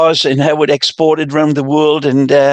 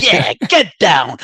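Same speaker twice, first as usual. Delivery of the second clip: slow, drawn-out mock American groove; bad American accent; slower than usual. Imitating partygoers on the record, bad American accent. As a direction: drag it out like a poor American impression. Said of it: "that's my worst American accent".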